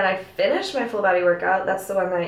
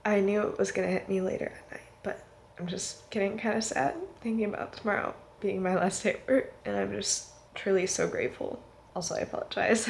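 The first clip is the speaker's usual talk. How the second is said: wearing a retainer; 4 dB quieter than usual. Real, not acted. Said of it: "I have my retainer in".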